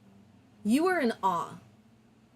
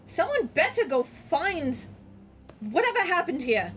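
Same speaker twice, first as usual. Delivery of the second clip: dragon voice; 5 semitones higher than usual. Acted. Dragon speaks.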